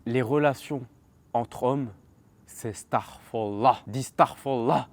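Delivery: slow, drawn-out strange commanding voice; imitating the madman. Imitating the cellmate slowly ordering him to say starfallah. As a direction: drag every word out like an odd preacher. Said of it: "Et il fait comme ça".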